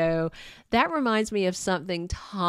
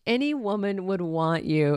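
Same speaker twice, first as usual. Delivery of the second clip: flattering. Retold or imitated. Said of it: "Brooke tried flattery".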